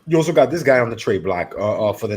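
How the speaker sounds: talking through hiccups; hiccuping. Real, not acted. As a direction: hiccups breaking the words. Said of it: "I'm hiccuping over here".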